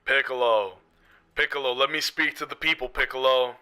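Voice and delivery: quick imitated anime meme voice, held back; put-on character voice with a filter effect; Vegeta. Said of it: "I can do this for increased effect".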